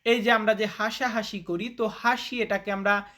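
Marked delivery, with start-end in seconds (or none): none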